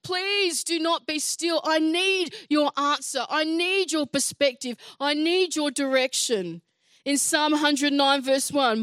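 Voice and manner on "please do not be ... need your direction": heartfelt plea. Acted. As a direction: voice David begging God to answer. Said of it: "Can you hear his heart in this situation?".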